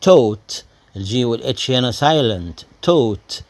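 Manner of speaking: taught said tot, G and H silent; taught pronounced tot. Shown as a demonstration. يعلّم الطلاب نطق taught: tot. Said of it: "شوفوا نطقها ازاي يا شباب".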